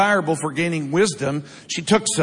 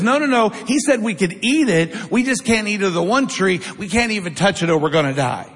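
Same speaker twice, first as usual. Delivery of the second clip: flustered Eve. Acted. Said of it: "And Eve says".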